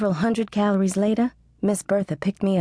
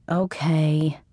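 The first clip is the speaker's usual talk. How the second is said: annoyed; 3 semitones lower than usual. A narrator's reading. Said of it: "I said, annoyed".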